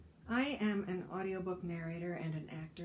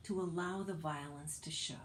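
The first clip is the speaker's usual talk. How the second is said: whisper; 2 semitones lower, 3 dB quieter than usual. Acted. Whispered closing of essay line.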